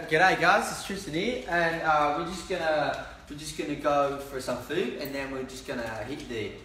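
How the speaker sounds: casual Australian greeting with lilting pitch; Australian accent. Shown as a demonstration. Bandmate obliging a request for his best Australian accent, mock Australian. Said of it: "give me your best Australian accent".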